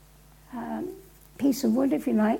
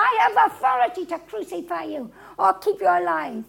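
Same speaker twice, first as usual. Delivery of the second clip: raised, exasperated assertion of power; 3 semitones higher, 4 dB louder than usual. Acted. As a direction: pull rank on a silent prisoner. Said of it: "exasperated, he goes again".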